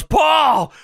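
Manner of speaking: loud, high shout of a name; drawn-out retold yell; mock yell. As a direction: holler it across a lot, hammed up. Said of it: "and he yells".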